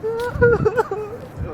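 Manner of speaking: high, loud mock wail; fake crying. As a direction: put on a sudden loud fake sob. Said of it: "I'll cry too".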